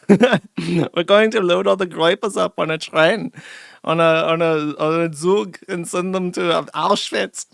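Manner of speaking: a hammed-up German accent with Zug thrown in; joking in a put-on German accent; mock German accent. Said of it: "Trying to speak in German".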